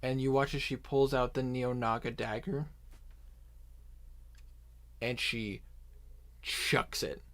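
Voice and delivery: ordinary talk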